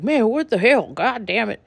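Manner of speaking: a hammed-up rich boy yelling; mock angry yell. Rich boy yelling at the car owner, mock outrage. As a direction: yelp it out high and outraged.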